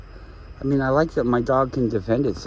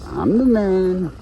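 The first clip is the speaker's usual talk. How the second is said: slow, drawn out swagger; slow low-ish boast; 6 semitones higher, 4 dB louder, slower than usual. Pretend. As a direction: say it slow and proud. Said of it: "repeated in higher voice".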